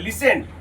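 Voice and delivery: "लिसेंड" with no t sound; silent t. Shown as a demonstration. Teacher repeating the rule for pupils, silent t in "लिसेंड". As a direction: leave the t out of "लिसेंड". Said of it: "टी silent".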